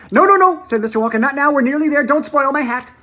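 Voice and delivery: high, loud hurried protest; urgent protest. A narrator's reading. Mr Wonka pleading with Missus T V not to be sick in his hat. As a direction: beg her to hold it in.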